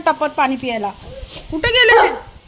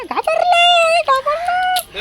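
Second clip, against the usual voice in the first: teasing; much slower than usual. Real, not acted. Teasing scared dog, high.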